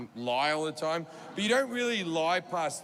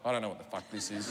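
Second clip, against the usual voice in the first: much lower and softer, under his breath; muttered aside; 11 semitones lower, 6 dB quieter than usual. Retold or imitated. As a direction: mutter it to yourself, baffled. Confused inner thought aside.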